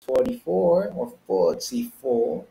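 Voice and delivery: first "forty-four" with flapped T, second with crisp T; "forty-four" American, then British-style "forty-four"; both pronunciations. Shown as a demonstration. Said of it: "mix and match all these pronunciations".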